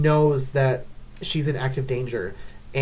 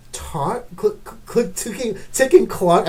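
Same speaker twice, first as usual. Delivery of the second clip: stumbling over words in anger; stuttering; 4 semitones higher than usual. Real, not acted. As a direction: trip on the word clicking. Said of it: "getting so mad I'm stuttering".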